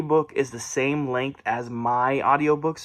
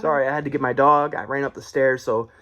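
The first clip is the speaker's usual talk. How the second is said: out of breath. Real, not acted. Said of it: "if I seem out of breath".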